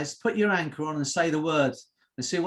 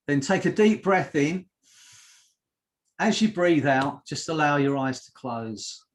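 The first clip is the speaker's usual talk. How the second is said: hypnosis induction. Real, not acted. Hypnotist asking listeners to breathe and close eyes, measured induction. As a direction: ease listeners into trance, pausing between phrases.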